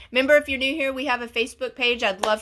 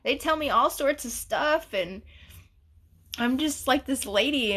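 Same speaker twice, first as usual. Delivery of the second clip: higher, wondering voice; puzzled self; 5 semitones higher than usual. Retold or imitated. Telling her mom she can't see why people trust her, higher puzzled. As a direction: ask it like you're truly puzzled. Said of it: "I was like".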